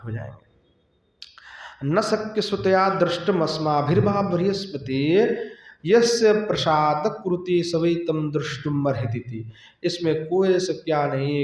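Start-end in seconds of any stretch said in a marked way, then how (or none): 1.8-9.5 verse recitation. Acted. Preacher quoting scripture to devotees, lightly chanted recitation. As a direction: intone the Sanskrit verse slowly, chant-like.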